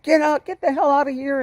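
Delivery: high, mock-angry yell. Driver kicking his passenger out onto the freeway, angry yelling.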